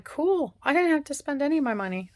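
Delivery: cheeky delight at free shopping; gleeful. Retold or imitated. Delighted spending husband's money.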